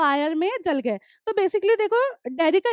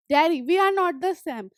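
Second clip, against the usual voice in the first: reading the story text slowly, word by word; slow reading aloud; much slower than usual. Acted. Teacher reading the story aloud to students, slow and clear. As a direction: read each English line slowly and clearly for the class.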